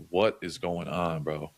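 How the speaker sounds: slow, drawn-out disbelief; low-key incredulous, heavily slowed; retold disbelief. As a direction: stretch out each word, stunned. Retold disbelief at bad news.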